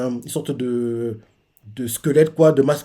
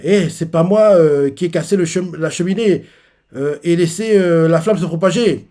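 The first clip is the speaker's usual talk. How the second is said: mock defensive protest; 3 semitones higher, 4 dB louder than usual. Character denies breaking chimney.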